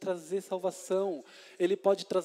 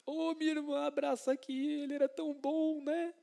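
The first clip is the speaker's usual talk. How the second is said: much higher, softer pretend comforting voice; mock sentimental consoler; 10 semitones higher, 3 dB quieter than usual. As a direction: play a syrupy mourner hugging the sister, in a sugary high voice. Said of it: "ele podia".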